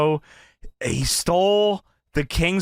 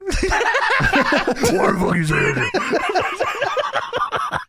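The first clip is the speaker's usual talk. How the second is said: slowly drawn out through real laughter; can barely get the words out for laughing; 13 semitones higher, much slower than usual. Real, not acted. Host cracking up at co-host's joke, laughing through it.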